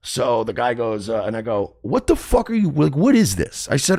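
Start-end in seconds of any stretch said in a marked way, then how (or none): 1.8-3.7 high, loud indignant retort; mock outrage. Renter confronting stranger over parking, high indignant outburst. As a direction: act out a heated challenge, pitched way up. Acted argument with the guy.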